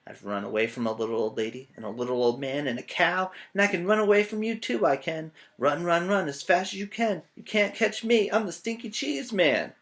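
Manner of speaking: fast boast climbing into a high chant; brag, then sing the dare; taunting cheese man. Acted.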